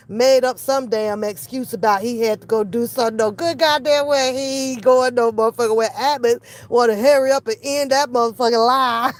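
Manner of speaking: ordinary delivery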